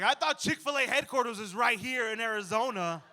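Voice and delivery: high, loud wide-eyed wonder; giddy excitement. Retold or imitated. Dreaming of waffle fries, loud giddy wonder. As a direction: gush like a kid spotting a treat. Excited Chick-fil-A fantasy.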